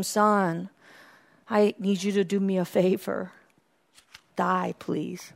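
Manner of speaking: soft, hushed parody of God asking; a hint of a gentle father; hushed mock God voice. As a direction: say it softly, like a casual favor. God voiced in mock dream quote.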